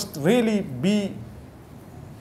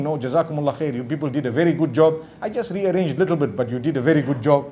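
polite thanks; 5 semitones lower, faster than usual. Shown as a demonstration. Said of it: "still by thanking".

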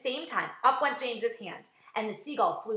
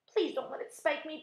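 high, pleading voice; begging; 7 semitones higher than usual. A narrator's reading. Earthworm afraid of the seagull's beak, begging. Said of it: "begged the earthworm".

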